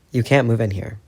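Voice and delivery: through clenched teeth; gritted teeth. Acted. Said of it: "teeth clenched".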